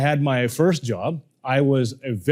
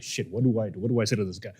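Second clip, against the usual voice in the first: panicked inner thought; 7 semitones lower, 9 dB quieter, faster than usual. Retold or imitated. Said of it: "So I'm like".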